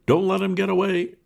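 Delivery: very high, loud yell; loud, high shout with GET stressed; shouted warning. Acted. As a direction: yell it at the whole crowd. Crowd calls out warning.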